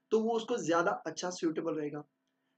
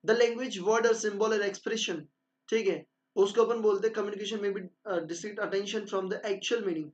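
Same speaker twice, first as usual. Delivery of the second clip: slow, deliberate dictation of a definition; slow textbook reading; much slower than usual. Acted. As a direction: read it out as if dictating notes. Reads definition slowly. (धीरे-धीरे notes लिखवाते हुए)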